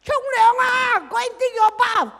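put-on high, loud shouting call to the kids; mother calling out. Mother shouting at her child to take a bath. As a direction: yell up to the kids to go bathe. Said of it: "cannot even hear your mother say".

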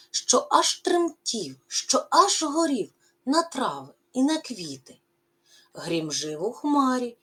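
lively, rising and falling poem recital; expressive poem reading. Acted. Teacher reading the poem to pupils, expressive recital. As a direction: read the verse to the class with feeling.

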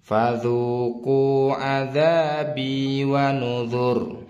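slow chanted reading of a verse, vowels held long; long recited phrase. Shown as a demonstration. Teacher models a longer line for learners, slow tajwid recitation. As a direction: recite it in one drawn-out, measured phrase. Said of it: "saya ulang lagi".

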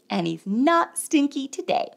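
ordinary delivery

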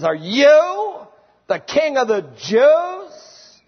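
mock the very idea he's a king; sarcastic, incredulous. Pilate mocking Jesus with an incredulous, sarcastic question. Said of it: "It's very sarcastic and incredulous".

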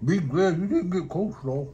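muffled chewy speech; talking while chewing. Real, not acted. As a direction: mouth partly full. Seen 1: Right man spooned coleslaw at -7, cheeks puffed, still chewing.

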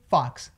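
"fox" with a short vowel; som curtinho. Shown as a demonstration. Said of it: "esse som é curtinho". ("fox" com vogal curtinha)

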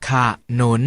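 ข as short ขะ, then นุน; syllable by syllable. Shown as a demonstration. Teacher leads class sounding out ขะ ... นุน together. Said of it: "มาออกเสียงคำเหล่านี้พร้อมๆกัน".

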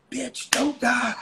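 slow, high, loud desperate plea; movie shout. Retold or imitated. Retelling the movie rescue scene, slow loud yell. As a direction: drag each word out, slapping her back to life. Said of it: "he slapped her and said".

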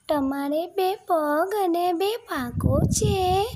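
high, slow little-chick voice; piccolo pulcino. A narrator's reading. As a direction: ask in a small, high-pitched baby-bird voice. Chick questions the crow.

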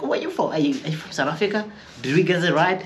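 high, curious imitated voice; mock American questioner. Americans asking where she's from.

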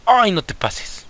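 high slow alarmed cry; alarmed plea. Real, not acted. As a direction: plead with the game, stretched out. Pokemon nearly fainting.

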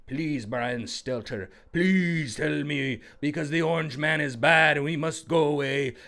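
lightly voiced whiny pleading; pleading fan mock. Mimicking a brainwashed viewer begging a news anchor, mild whine. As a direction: beg like a hooked viewer, lightly. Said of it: "He was like".

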